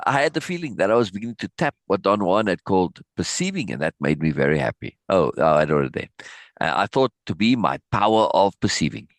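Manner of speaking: steady narration read from the page; reading a book aloud. Acted. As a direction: read the passage to the class, lightly voicing the dialogue. Reads book passage aloud.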